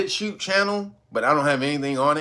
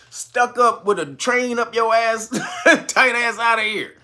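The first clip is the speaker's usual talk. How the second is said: laughing; 5 semitones higher than usual. Real, not acted. Mocking stuffy viewers, laughing.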